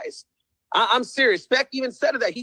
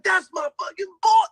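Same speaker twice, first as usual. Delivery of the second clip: excited shout-out; 8 semitones higher than usual. Retold or imitated. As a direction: hail him like a long-lost buddy. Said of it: "He's like".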